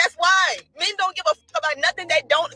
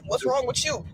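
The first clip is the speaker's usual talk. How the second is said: brother quoted; 6 semitones higher, 5 dB quieter, slower than usual. Retold or imitated. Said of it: "My brother gonna come up in here and say".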